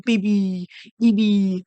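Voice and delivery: lightly mimicked fiancé talk; imitating the fiancé. Mocking Shayna's fiancé for viewers, light imitation. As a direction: give a light take-off of how he talks. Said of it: "That's how he talks".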